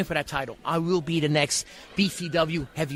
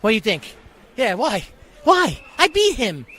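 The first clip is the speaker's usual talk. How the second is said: wrestling promo rant. Acted. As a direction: fire up the crowd like a wrestling villain. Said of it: "Character, character starting a little early".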